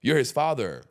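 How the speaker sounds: high-pitched, insistent reasoning; retold lecture to friend. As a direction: drive the point home to a friend. Retells lecturing his overweight friend.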